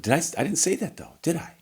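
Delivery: high, soft rhetorical "did I?"; mock incredulous. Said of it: "I said".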